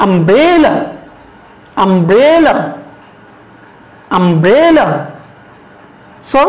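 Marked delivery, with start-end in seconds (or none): 0.1-4.9 "umbrella" with a long, stressed middle syllable; stress on BRE. Shown as a demonstration. Teacher leads students in saying "umbrella", middle syllable stressed. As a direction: swell on the middle of "umbrella", then fall away. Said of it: "এখানে আমরা একটু জোর দিয়ে বলবো".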